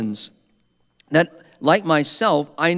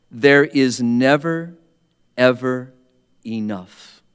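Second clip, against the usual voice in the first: stern insistence; slower than usual. Retold or imitated. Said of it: "as if to chastise him".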